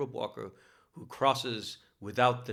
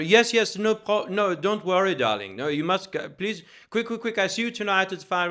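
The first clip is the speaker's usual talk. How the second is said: imitating a theatrical Frenchman, loud and higher; French accent; 10 semitones higher, 8 dB louder than usual. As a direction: gush "darling" in a hammed-up French accent, urging. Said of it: "very thick French accent".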